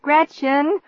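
high, urgent call for help; desperate cry. A narrator's reading. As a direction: cry out from another room. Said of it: "his desperate cry from the kitchen".

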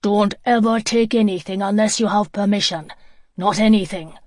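stern and loud, scolding. Acted. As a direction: lay down the law to the child. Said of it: "he was saying sternly".

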